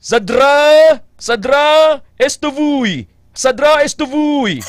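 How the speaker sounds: high garbled "Sadra, esto vui"; mock Russian greeting. Shown as a demonstration. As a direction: fake a Russian hello. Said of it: "magamba ka nga".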